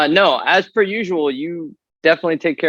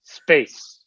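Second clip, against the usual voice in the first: put-on British accent; 3 semitones lower, slower than usual. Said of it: "I don't know why I made him British".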